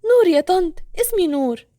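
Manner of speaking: put-on high, smiling young woman's voice. A narrator's reading. Nour introduces herself to the lady, smiling high voice. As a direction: lift it up with a smile. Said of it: "وقالت بابتسامة".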